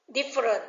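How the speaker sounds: "different" with the beat on DIF; first-syllable stress. Shown as a demonstration. Teacher reading answer choices to students, first-syllable stress on "different". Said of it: "dấu nhấn ở phần đầu".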